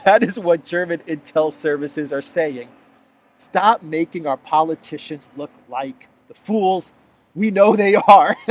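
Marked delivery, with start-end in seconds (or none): 3.3-8.4 mock plea, punchline louder. Reworded mock plea, laughing.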